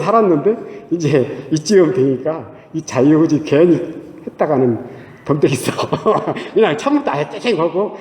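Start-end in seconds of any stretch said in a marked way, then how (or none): 5.7-6.5 short, quiet chuckle; a brief amused laugh to oneself. Real, not acted. Preacher amused at own story, short chuckle.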